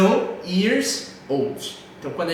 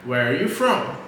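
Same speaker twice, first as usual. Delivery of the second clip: from falls with the weight of the question; from emphasized at the end; stress on from; 4 semitones lower, slower than usual. Shown as a demonstration. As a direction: land firmly on from. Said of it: "enfatizar esse "from".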